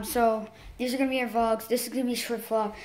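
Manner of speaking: hurried vlog intro, a bit soft; talking fast. Real, not acted. Vlogger rushing because it's a short vlog, talking fast. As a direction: rush through the intro. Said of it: "that's why I'm talking so fast".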